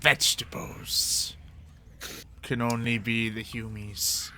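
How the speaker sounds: slow, halting creature voice; rat-form goblin character. Acted. Goblin rat reporting a smell, slow character voice. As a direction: draw it out slowly, sniffing out a clue.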